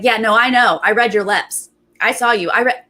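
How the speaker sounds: imitated self-assured gotcha; knowing accusation. Recapper imitating him confronting her over lip-reading, knowing and insistent. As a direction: mimic someone insisting on what they saw. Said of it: "this is exactly how he's doing it".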